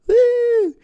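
very high, very loud whooping little brother; kid whoop. Retold or imitated. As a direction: yelp like a hyper kid brother. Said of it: "Jake little brother noises".

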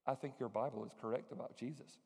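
soft, low admission; quiet confession. Retold or imitated. Imam confessing to the pastor, soft and low. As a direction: say it softly, almost confiding.

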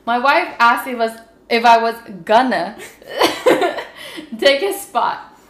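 reading through laughter; giggling while reading; laughing. Real, not acted.

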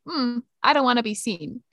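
understated, hesitant "hmm" then a modest delivery; reluctant outfit voice. Acted. Friend voicing the shy half of an outfit, understated reluctance. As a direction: voice an outfit that would rather hide. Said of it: "Part of his outfit is like".

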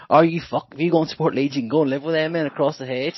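father scolding his son, half-hammed; mock stern dad. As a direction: snap back like a dad calling the bluff. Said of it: "he actually says to me".

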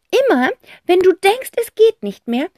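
high, loud aunt voice reciting a saying; Tante Rotz quoting. A narrator's reading. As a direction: quote the old song like a grand eccentric aunt. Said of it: "zitiert Tante Rotz".

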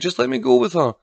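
put-on high, pleading child; begging. A narrator's reading. Child begs to leave with her aunt, begging. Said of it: "she begged".

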